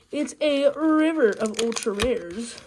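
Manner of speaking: lightly voiced YouTuber catchphrase; a hint of a hyped pack-opening host; Real Breaking Nate. Quoting a famous YouTuber's catchphrase to viewers, lightly imitated. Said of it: "As Real Breaking Nate, the legendary YouTuber, says".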